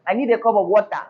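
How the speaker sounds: flat Nigerian accent; plain Nigerian intonation, falling at the end; Nigerian pronunciation. Shown as a demonstration. Teacher using the Nigerian pronunciation for the class, flat Nigerian accent. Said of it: "use the Nigerian pronunciation".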